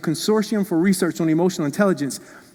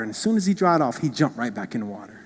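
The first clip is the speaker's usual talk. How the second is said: usual speaking voice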